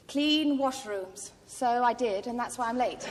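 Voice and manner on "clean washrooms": slow sign reading. Retold or imitated. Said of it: "it read".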